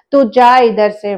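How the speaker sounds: a god's loud rebuke of an intruder; retold angry shout. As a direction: drive him off with a loud order. God shouting the boy away.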